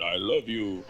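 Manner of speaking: deflated. Acted. Husband reacting to wrong name.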